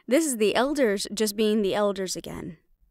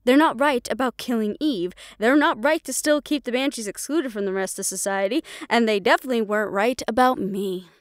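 louder, heated pushback; angry argument; 4 dB louder than usual. Acted. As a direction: defy mother, voice raised. Daughter argues with mother.

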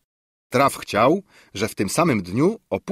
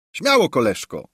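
eager, slightly louder, higher call; hot-headed call; 5 semitones higher, 4 dB louder than usual. A narrator's reading. Paliwoda egging on his friend, eager raised call. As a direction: urge him on like a hothead. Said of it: "zawołał zapalczywy kolega Paliwoda".

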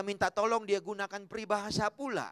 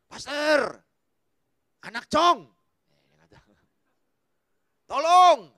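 rising, louder pleading cry; mock desperate plea to the pastor; crying out for help; 4 semitones higher, 10 dB louder, much slower than usual. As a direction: beg loudly, louder each word. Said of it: "wanita datang berseru".

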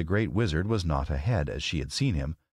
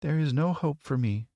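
put-on high, plaintive little girl; a touch of despair, pitched high; sad; 9 semitones higher than usual. A narrator's reading. Girl telling friends of her failure, sad. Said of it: "she said sadly".

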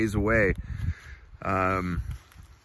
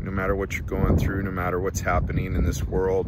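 emphatic encouragement; 7 dB louder than usual. Real, not acted. Earnest encouragement to viewers.

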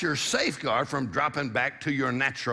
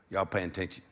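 West Virginia drawl; 7 semitones lower, 6 dB quieter than usual. Shown as a demonstration. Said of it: "That's what they say in West Virginia".

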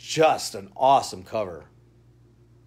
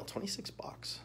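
breathy aside whisper, much softer; whispered price; 4 semitones higher, 17 dB quieter than usual. Real, not acted. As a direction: let the price slip out in a whisper.

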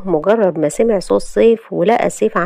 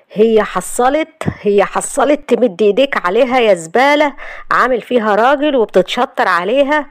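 a hint of rage, barely raised; mild mock yell; 4 semitones higher than usual. Husband beating the man who hit his wife, mild mock yell. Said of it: "وهو بيصرخ".

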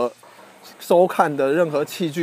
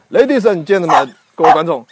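show announcer; 5 dB louder than usual. Pretend. Redoing the show introduction.

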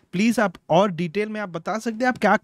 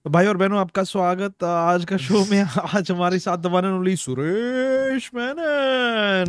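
TV host intro. Pretend. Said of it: "full TV vibes में".

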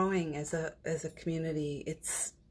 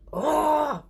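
loud, high mock wail of reluctance; imitated reluctant "oh!", cried out; reluctant groan; 9 semitones higher, 7 dB louder than usual. Channeler told by his guides to get ready, loud mock groan.

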